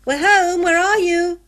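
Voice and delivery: high, loud call through the house; eager child calling out loudly; shout. A narrator's reading. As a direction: shout for mother on getting home. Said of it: "George gave a shout".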